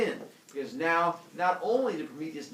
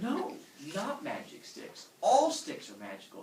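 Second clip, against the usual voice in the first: patient correction; 5 semitones higher than usual. Acted. God corrects the humans.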